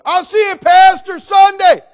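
put-on shrill yelling teenage girl, very high and loud; teenager yelling. Teen girl shouting at pastor across store, high loud yell. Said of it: "she went out the store".

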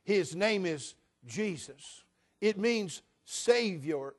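slow, reverent "Jesus" with weight on each word; the preacher saying "Jesus" slowly and with reverence. Shown as a demonstration. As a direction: say the name "Jesus" like it's sacred. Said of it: "That's not how you say His name".

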